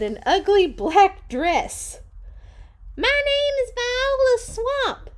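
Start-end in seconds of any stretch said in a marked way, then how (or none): 3.0-5.1 very high, loud witchy voice; Viola Swamp. Acted. Mean substitute introducing herself to the team, high loud witch voice. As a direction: announce yourself like the meanest substitute. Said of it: "said the lady".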